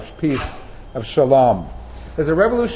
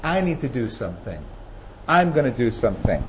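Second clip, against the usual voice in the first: softer, lower, firmly resolved; quiet resolve; 6 semitones lower, 4 dB quieter than usual. Retold or imitated. Preacher voicing a believer who decides to act, quiet and determined. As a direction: say it quietly like you mean it. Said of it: "roll their sleeves up and say".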